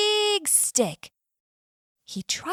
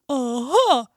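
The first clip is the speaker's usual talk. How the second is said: much higher, louder slow yell; triumphant yell; 6 semitones higher, 6 dB louder, slower than usual. Acted. Bear cornering the bee in the hive, gloating yell. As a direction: gloat over the trapped bee. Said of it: "yells Mister Bear".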